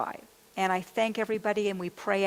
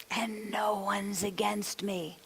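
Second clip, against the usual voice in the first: slow, soft whisper; hushed reassurance; 5 dB quieter, slower than usual. Retold or imitated. Imagined supportive mindset, dropped to whisper.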